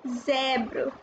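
"zèbre" with an open eh, ZEH-bruh; open accent grave. Shown as a demonstration. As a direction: widen the mouth on the è in "zèbre". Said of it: "this accent makes your mouth expand".

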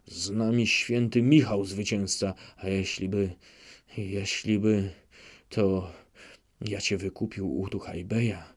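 a lightly voiced drunk hetman, rambling then fading; drunken Chmielnicki. Chmielnicki babbles to himself while drunk, fading mumble. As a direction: slur and drift as the vodka takes him.

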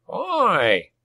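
high, drawn-out goblin holler; high-pitched indignant shout from a goblin; goblin cry. A narrator's reading. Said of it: "cried Nazbot".

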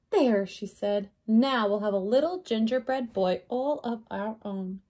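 put-on measured, expressive read-aloud to children; story narration. A narrator's reading. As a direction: read a picture book to a young class. Reads picture book to children.

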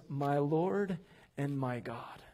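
slow, low and hushed; reverent declaration. Retold or imitated. Preacher quotes Thomas's response to Jesus, low slow reverence. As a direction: say it softly with solemn weight.

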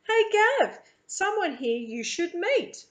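loud, high call to a mate; calling over shoulder. A narrator's reading. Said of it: "He calls over his shoulder".

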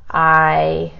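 ordinary delivery

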